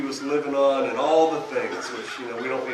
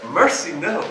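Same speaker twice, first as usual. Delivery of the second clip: lightly voiced pious friend, mild dismay; a hint of an old-fashioned churchgoer saying mercy, no; imitating Bob; 4 dB louder, slower than usual. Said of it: "That's what he says, how he talks".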